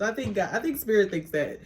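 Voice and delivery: ordinary talk, nothing marked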